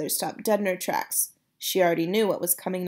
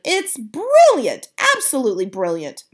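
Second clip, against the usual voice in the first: grandmother shouts; 4 semitones higher, 7 dB louder than usual. Acted. Grandmother praises grandson's plan, delighted shout. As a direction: savour the praise, grinning. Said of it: "she shouted".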